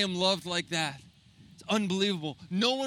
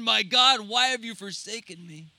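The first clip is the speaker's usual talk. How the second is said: imitated scream; 2 semitones higher than usual. Preacher voicing Jesus forsaken on the cross, imitated scream. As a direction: cry out in retold agony, strongest at the start. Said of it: "And Jesus screamed".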